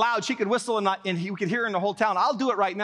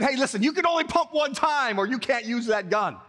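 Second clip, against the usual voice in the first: raised-pitch, firm retold warning; insistent warning; 4 semitones higher than usual. Upset boys to their friend with the gun, insistent warning. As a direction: lay down the rule, lightly acted.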